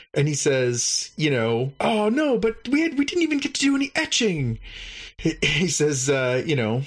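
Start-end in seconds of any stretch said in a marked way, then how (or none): 1.8-4.6 very high, fast whiny alien; disappointed alien. Retold or imitated. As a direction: pitch way up and whine quickly.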